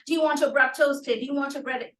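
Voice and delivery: lightly imitated American accent; a hint of an American server's accent. Mentor re-enacting the Subway server's question, light American accent. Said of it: "brought in that element of the accent".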